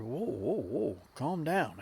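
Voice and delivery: calming down. Retold or imitated. Calming the angry lady.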